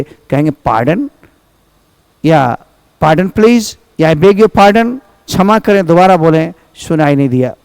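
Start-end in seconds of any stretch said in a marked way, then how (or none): 0.5-5.0 polite with manners. Shown as a demonstration. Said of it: "आप manners के साथ बोलेंगे".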